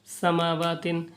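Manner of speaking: "समावातिन" read straight through, shorter vowels; fluent reading. Shown as a demonstration. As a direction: run "समावातिन" together as one flowing word. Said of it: "इसको रहमानी भी पढ़ने की कोशिश".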